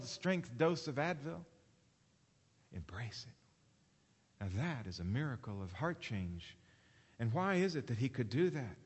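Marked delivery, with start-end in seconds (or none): 2.7-4.4 much softer, lower and very slow; hushed emphasis. Real, not acted. Preacher urging his listeners to embrace hardship, hushed and slow. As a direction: drop to a near hush and let it land. Quiet payoff after loud build.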